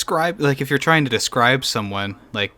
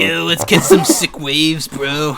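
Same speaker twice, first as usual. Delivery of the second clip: slow, drawn-out hippie surfer voice; surfer dude; 3 dB louder, slower than usual. Acted. Host parodies a hippie surfer, stretched surfer-dude voice. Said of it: "hippie kind of surfer dude".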